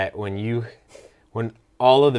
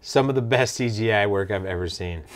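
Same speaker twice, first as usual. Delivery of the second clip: dry mock praise; deadpan, praising what you hate; sarcastic. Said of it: "you guys know I'm being sarcastic".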